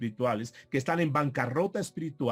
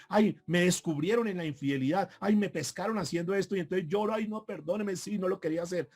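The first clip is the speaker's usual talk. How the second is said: mock remorse; 3 semitones higher than usual. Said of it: "llorar de remordimiento".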